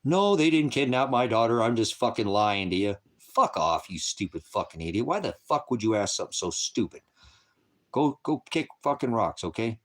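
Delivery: sarcastic, cursing outburst at trolls; swearing tirade. Real, not acted. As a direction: snap back, furious and mocking. Sarcastic rant at chat trolls.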